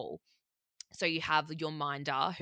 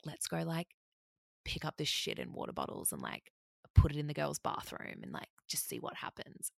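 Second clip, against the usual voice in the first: hushed, half-whispered scheming, much softer; conspiratorial hush; 6 dB quieter than usual. Retold or imitated. Romy hatching a prank, whispering the plan. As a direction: drop to a sneaky near-whisper.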